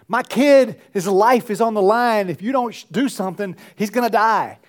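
desperate begging father. Retold or imitated. Father begging Jesus to heal his son, urgent pleading. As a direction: plead like your child's life depends on it. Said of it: "He's begging".

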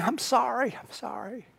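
soft, fading "I'm sorry" as if through tears; mild imitation of weeping; wife sobbing apologies to her husband, hushed; tearful apology. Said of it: "she's weeping and saying".

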